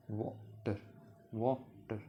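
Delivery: वाटर split into वा and टर; syllable-split pronunciation. Shown as a demonstration. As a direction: isolate वा, brief gap, then टर. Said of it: "pronounce करेंगे जैसे डब्ल्यू".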